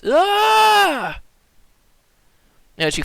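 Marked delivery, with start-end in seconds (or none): 0.0-1.2 high, loud cry of pain; pained yell. Acted. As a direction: yell out as if struck. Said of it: "as he kinda yells out".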